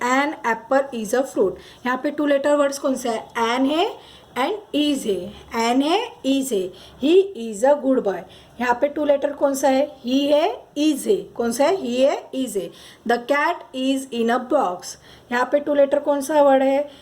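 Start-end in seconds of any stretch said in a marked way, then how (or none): 0.1-1.6 slow example read. Shown as a demonstration. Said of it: "teacher reading example sentence". 13.1-14.9 very slow, word by word; drawn-out classroom reading; slow example read. Shown as a demonstration. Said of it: "मतलब क्या".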